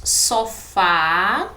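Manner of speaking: "Sofá" with a loud, rising final "fá"; "Sofá" punched on its final syllable; stress on last syllable. Shown as a demonstration. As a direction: lean hard on the "fá" of "Sofá". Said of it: "a sílaba tônica é a última".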